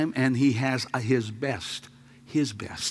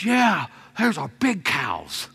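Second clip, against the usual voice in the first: put-on little boy; 5 semitones higher, 3 dB louder, slower than usual. Voicing eight-year-old boy.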